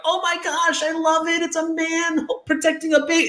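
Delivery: put-on a lovestruck fan squealing over the baby; mock gushing fan. Mocking female fans gushing, high falsetto squeal. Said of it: "they're like".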